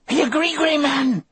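high, loud Cajun insistence; vehement Cajun. A narrator's reading. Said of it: "Delacroix said vehemently".

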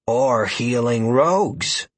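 slow, dry deadpan. Acted. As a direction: deliver it dead flat. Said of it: "completely deadpan".

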